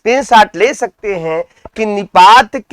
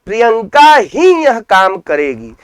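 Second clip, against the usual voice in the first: "ही" raised above the other words; stress on ही. Shown as a demonstration. Teacher giving one more example to students, stress on "ही". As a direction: lift "ही" right after the name. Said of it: "किसी शब्द पर विशेष जोर दिया जाए".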